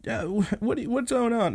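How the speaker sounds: put-on high, stammering startled girl; flustered. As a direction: stumble over it, caught off guard. Girl flustered by brother barging in.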